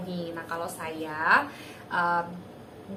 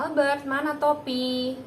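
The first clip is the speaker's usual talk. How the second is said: put-on asking the child; 5 semitones higher than usual. Shown as a demonstration.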